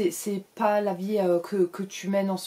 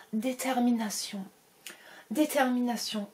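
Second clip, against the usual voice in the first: psychic voice; 4 semitones higher than usual. Pretend. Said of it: "elle revient".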